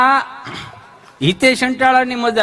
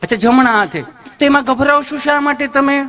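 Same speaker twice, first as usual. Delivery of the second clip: higher, sugary nurse voice with a questioning hum; sweet nurse; 6 semitones higher than usual. Retold or imitated. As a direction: play the gushing nurse, all honey.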